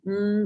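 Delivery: "mm" as an isolated held nasal hum, the N ending of "can"; last-sound demo. Shown as a demonstration. Clinician isolating a word's last sound, held nasal "mm". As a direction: hum the final sound "mm" by itself. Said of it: "and then the last sound".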